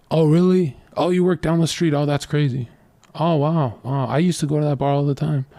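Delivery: acted bar chat. Man chatting to a girl beside him at a bar, acted small talk. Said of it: "if I'm talking to a girl at a bar".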